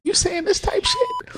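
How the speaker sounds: very high, slow falsetto question. Acted. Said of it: "mocking the high voice".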